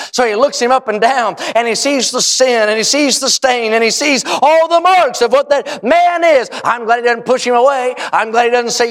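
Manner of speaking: steady, emphatic sermon delivery; preaching. Real, not acted. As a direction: preach it to a congregation with conviction. Preaches the cleansing story.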